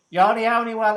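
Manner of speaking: lightly attempted New York Jewish accent that falls apart; bad New York Jewish accent. Host quoting David Weiss in a failed New York Jewish accent. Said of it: "I can't do the accent, clearly".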